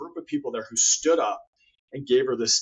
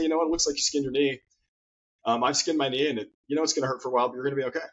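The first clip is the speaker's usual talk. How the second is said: confident reassuring; faster than usual. Retold or imitated. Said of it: "you say it in a confidence, in a confident, good way".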